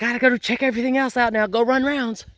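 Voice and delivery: high, fast eager dog voice; dog's voice. Pretend. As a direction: rattle it off like a dog in a hurry. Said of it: "she's like".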